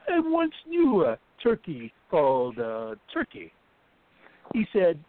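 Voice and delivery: poem read in a put-on Jamaican accent. Reading Zephaniah's poem as he asked, in a Jamaican accent. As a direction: give it your best Jamaican accent, playful. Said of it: "in your best Jamaican accent".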